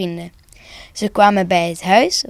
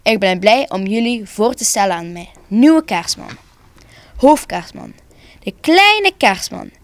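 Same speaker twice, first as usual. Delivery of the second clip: solemn announcement. A narrator's reading. Head Santa presents his successor to everyone, solemn announcement. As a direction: announce it formally, with pauses before the reveal. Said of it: "toen zei hij plechtig".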